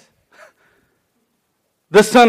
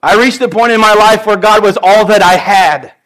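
emotional; 3 dB louder than usual. Real, not acted. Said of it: "probably not without getting emotional".

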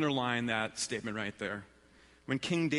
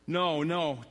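slow, understated protest; narrated cry; 5 semitones higher, 4 dB louder than usual. A narrator's reading. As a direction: draw out her cry of refusal slightly. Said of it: "Tamar cried".

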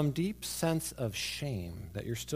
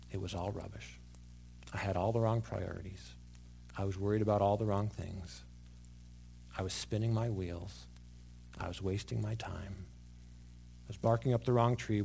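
regretful confession; 4 semitones lower, 5 dB quieter than usual. Pretend. Imagined listener's regretful confession.

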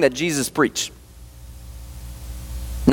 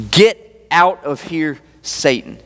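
very slow, spaced-out command; low and deliberate, word by word; measured command; 4 semitones lower, much slower than usual. Acted. Jesus sending the devil away, measured command. Jesus dismisses Satan in scripture.

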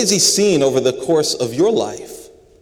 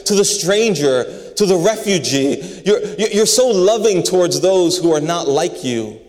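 God's imagined gushing praise; 4 semitones higher than usual. Pretend. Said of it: "he never says".

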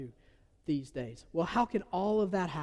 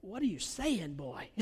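mock bafflement; 3 semitones higher, slower than usual. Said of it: "you're listening to him, and I'm like".

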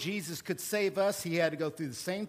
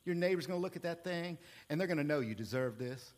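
softer, smooth, fast sales patter dropping to a hush; car salesman; 7 semitones lower, 5 dB quieter than usual. Retold or imitated. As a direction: ease the customer into the deal. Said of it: "as a car salesman, I used to say".

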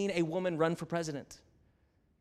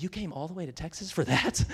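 laughing disbelief; faster than usual. Retold or imitated. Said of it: "And I was like".

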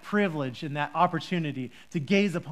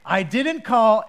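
put-on a bit louder, curt old man; grumpy Eli; 2 semitones higher, 7 dB louder, slower than usual. Eli curtly denies calling the boy again. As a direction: cut him off like an irritated old priest. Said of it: "a very grumpy voice on Eli".

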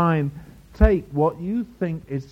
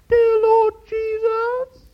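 very high, loud, drawn-out monotone; hammed-up prayer voice, far above normal pitch; mock praying voice; 6 dB louder, much slower than usual. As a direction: intone it slowly on one piercingly high note. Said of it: "their voice goes up six octaves".

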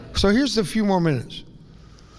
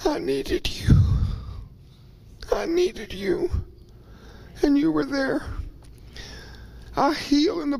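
crying whisper; 11 semitones higher, 5 dB quieter than usual. Real, not acted. Preacher thanking the congregation in tears, crying whisper. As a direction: voice gone, sobbing out a whisper. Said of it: "My voice goes away and I cry".

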